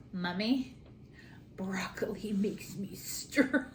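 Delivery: slow, half-whispered imitation of a child; retold little daughter. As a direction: quote a small girl, stretching it out. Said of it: "she goes".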